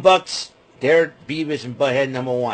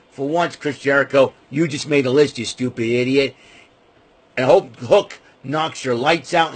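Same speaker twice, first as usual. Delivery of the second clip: loud angry rant; 5 dB louder than usual. Real, not acted. Ranting at Jericho on camera.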